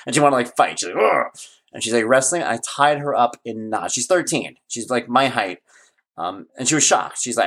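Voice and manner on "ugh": imitated daughter's growl; mock growl. Daughter wrestling her dad for fun, mock growl. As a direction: growl like a play-fighting kid. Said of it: "don't growl at me".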